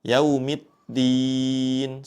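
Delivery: Yaumiddin with the dal wrongly hardened toward a t, slow. Shown as a demonstration. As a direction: show the mistake: yaumitdin, the dal said as ta. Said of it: "ada pengucapan huruf ta".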